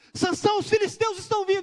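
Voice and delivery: put-on high, sudden shout. Retelling how she suddenly cried out to wake the sleeping man, retelling a shout. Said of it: "ela deu um grito".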